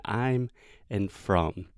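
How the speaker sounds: "I'm" and "from" ending with lips shut on m; final m fully closed in "I'm from". Shown as a demonstration. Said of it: "closing her mouth with both the final M".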